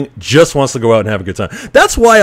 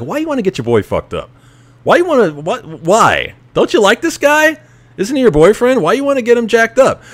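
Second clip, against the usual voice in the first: high-pitched incredulous mockery, pleading why; high mocking rant; 11 semitones higher than usual. Mocking the girlfriend in a high, incredulous voice. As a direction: squeak up in disbelief at her.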